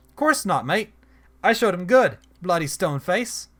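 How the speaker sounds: lightly voiced Australian accent, cocky; a touch of an Australian twang, proud of herself; Aussie accent. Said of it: "alternating between giving her an accent and not".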